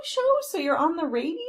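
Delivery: imitated mom. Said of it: "Yeah, my mom still is".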